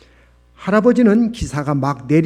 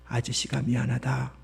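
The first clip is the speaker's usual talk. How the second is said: small, soft mumbled apology; barely audible; 8 dB quieter than usual. A narrator's reading. Ashamed man apologising to the schoolgirl, barely audible. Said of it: "들릴락 말락 모기 소리로".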